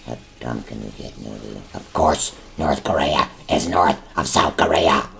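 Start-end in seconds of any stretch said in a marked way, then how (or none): 1.7-2.3 annoyed. Acted. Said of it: "No need to get angry". 2.6-5.1 slow, louder, every word spelled out; huffy, drawn-out correction; exasperated. Acted. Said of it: "No need to get angry".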